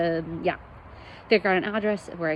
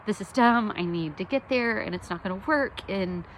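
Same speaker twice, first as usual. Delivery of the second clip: toned-down frantic prayer; 4 semitones higher than usual. Retold or imitated. Praying to God about the lost passport, in a toned-down frantic rush. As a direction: pray it out in a half-hearted fluster. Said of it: "I say all that a lot more frantically than that".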